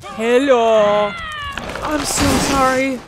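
loud, sweetly apologetic, then flat verdict; fake-polite monster. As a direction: apologise sweetly before the kill. Monster greets doomed victim.

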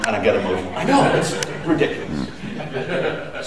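embarrassed laugh while emotional; laughing through tears. Real, not acted.

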